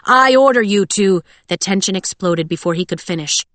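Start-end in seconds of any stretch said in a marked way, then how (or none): 0.1-1.2 loud, raised command, cut short; snapped order. A narrator's reading. Holt commanding soldiers closing in, snapped. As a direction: order them forcefully until interrupted. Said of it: "Holt snapped".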